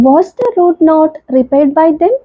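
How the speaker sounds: very slow, word-by-word example read; slow classroom reading of an English example; slow dictation. Shown as a demonstration. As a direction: spell the sentence out slowly for students. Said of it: "teacher dictating example sentence".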